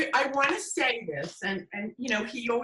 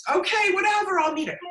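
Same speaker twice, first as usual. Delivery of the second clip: dismissive whatever; 8 semitones higher, 4 dB louder, faster than usual. Retold or imitated. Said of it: "And so I".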